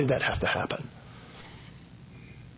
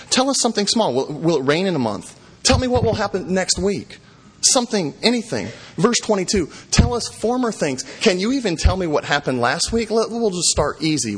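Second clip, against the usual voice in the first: higher, mocking challenge to the idols; sarcastic taunt; 5 semitones higher than usual. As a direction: taunt them, dare them to answer. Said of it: "talking to the idols very sarcastically".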